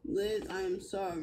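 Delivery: slow, breathless whisper of sorry; whispered apology. Real, not acted. Woman pleads softly to Liz after being scolded, whispered apology. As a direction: barely voice it, drawn out. Apologizing during live argument.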